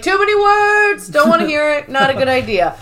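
high, dismissive boss voice; Michael impression. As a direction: brush it off like a clueless boss. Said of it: "And Michael's like".

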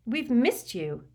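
timid, emotional appeal; tremulous. A narrator's reading. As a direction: say it slowly, close to wavering. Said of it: "said Hermione tremulously".

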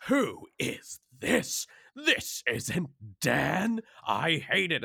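lightly voiced whiny fan; mocking fans. Narrator retelling fans' complaints in a mildly whiny voice. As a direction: mimic an outraged commenter. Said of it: "They were like".

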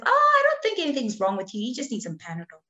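mock dismissive physio. Physio dismissing her pain.

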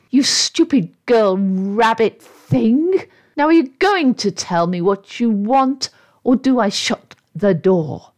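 mildly contemptuous demand; scornful. Acted. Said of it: "said the voice scornfully".

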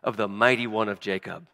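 solemn read-aloud of Genesis; scripture reading. Acted. Pastor reading Jacob's blessings to the congregation, solemn reading. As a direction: read the blessings with weight, phrase by phrase.

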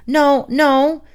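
high, loud hasty refusal; alarmed. Acted. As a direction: blurt it in a panic. Baker alarmed.

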